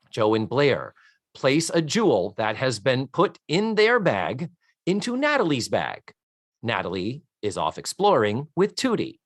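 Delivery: measured read-aloud with swooping emphasis on names; deliberate storyteller-style recap; reading a synopsis. Real, not acted. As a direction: read out a plot summary, lightly theatrical.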